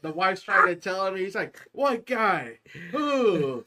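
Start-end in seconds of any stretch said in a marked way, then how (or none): 1.7-3.6 confused loud yell. Retold or imitated. Retold dad confused at wife.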